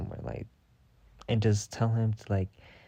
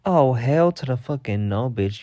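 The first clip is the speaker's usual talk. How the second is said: outraged telling-off; 3 semitones higher, 6 dB louder than usual. Retold or imitated. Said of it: "I'm like".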